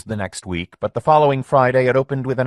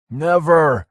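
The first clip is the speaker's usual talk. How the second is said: loud, higher shout of never; Lenny shouting back at Mike; shouted answer; 6 semitones higher, 5 dB louder than usual. A narrator's reading. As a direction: shout him down. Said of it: "answered Lenny".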